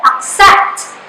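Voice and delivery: "accept" with the second syllable stressed. Shown as a demonstration. Teacher shows students the stressed syllable, "accept" stressed on "cept". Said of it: "the syllable set is the stressed syllable".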